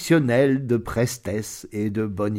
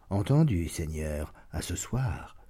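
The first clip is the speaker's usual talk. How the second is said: meek wolf; 6 semitones lower, 8 dB quieter than usual. Acted. Wolf answers the lion.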